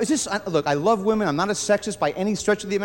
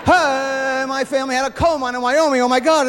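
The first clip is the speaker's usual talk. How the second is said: blurting out. Acted. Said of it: "I give away family secrets".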